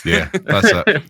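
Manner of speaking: put-on thick Glaswegian accent, slow; broad Glasgow voice. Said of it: "Yell about C M Punk".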